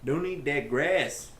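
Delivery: mock Canadian accent. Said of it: "That's from a Disney movie".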